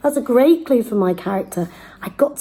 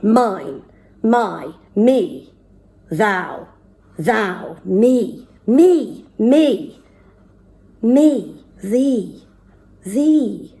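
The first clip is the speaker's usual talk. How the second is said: each word punched separately, with a pause after each; punched word list; much slower than usual. Shown as a demonstration. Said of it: "Here we go".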